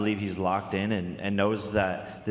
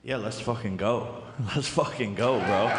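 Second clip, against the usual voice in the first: hyped up. Real, not acted. Fighter hyped by kill remark.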